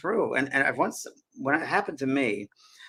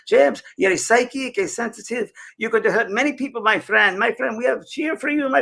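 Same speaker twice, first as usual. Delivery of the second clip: loud spirit voice; 9 semitones higher, 5 dB louder than usual. Retold or imitated. Spirit voice addressing James at the seance, loud and high. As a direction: boom out a blessing from beyond. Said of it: "and it was loud".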